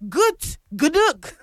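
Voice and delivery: Gut Gnug tried out as two separate words; attempted pronunciation. Shown as a demonstration. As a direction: have a careful go at "Gut Gnug". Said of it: "I will try pronouncing this song".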